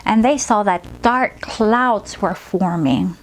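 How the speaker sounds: slowed, gentle story voice; storytelling to a child. Acted. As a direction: paint the picture for the child. Story narration resumes.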